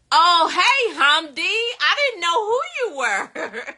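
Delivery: shrieking hello that breaks into laughter; surprised greeting. Real, not acted. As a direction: greet him like a sudden pleasant discovery. Surprised to recognize viewer.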